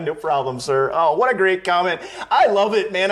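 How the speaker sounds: laughing through the words, delighted. Real, not acted. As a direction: crack up while reading the comment. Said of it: "I'm laughing so hard".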